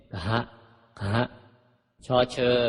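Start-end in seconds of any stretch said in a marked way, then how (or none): 0.1-1.2 "กะฮะ" run together as breathy gha; aspirated Pali consonant. Shown as a demonstration. Teacher demonstrates Pali letters to readers, h-blended "กะฮะ". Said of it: "กล้ำหอหีบเป็น".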